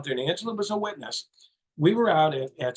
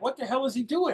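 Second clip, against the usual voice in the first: mock disbelief; 7 semitones higher than usual. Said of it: "You know, like".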